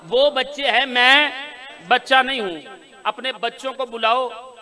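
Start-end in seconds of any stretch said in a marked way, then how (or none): 0.0-2.8 louder, with weight on मैं; Ali's reply, proclaimed. Acted. Preacher repeating Ali's reply so the hall will respond, louder. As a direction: declare it to the crowd. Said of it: "बोलो यार जो बोल सकते हो".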